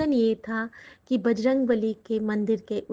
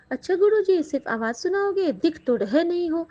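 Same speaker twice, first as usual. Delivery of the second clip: high calling out; 6 semitones higher than usual. Retold or imitated. Devotee calls out to Guruji, high and playful. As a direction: sing out playfully, pitched up. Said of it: "और मैं इसी तरह बोल रही हूँ".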